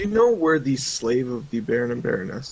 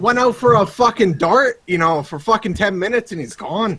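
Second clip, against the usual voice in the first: put-on rambling Canadian hoser accent, winding down. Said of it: "he said again in your accent".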